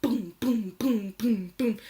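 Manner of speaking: loud, punched imitation of banging; heavy repeated booms; booming bed noise. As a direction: thump out each boom like a bed hitting a radiator. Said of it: "I can hear boom".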